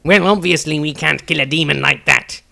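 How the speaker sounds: huffy indignant snap; agitated Maestro. A narrator's reading. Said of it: "Maestro was agitated".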